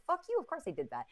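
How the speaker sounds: mock angry retort. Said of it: "not respond with".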